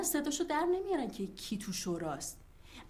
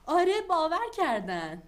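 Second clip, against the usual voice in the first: defiant; 4 semitones higher, 8 dB louder than usual. Acted. Defiant reply to doubting husband.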